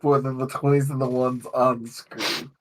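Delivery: measured, fluent prepared monologue; game master's opening speech. Real, not acted. Game master opening the session to players, prepared monologue. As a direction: deliver it as a sincere table preamble.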